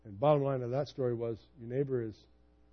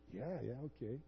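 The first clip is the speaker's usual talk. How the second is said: deflated realization; 3 semitones lower, 18 dB quieter, faster than usual. Retold or imitated. Realizing his mistake, deflated.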